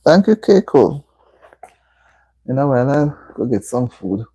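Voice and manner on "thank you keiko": breathy whisper, no voice at all; whispered thanks. Real, not acted. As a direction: whisper it like a private thank-you.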